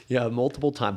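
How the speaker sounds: multiple time through a laugh. Real, not acted. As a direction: laugh while saying multiple. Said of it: "I struggle with that word too".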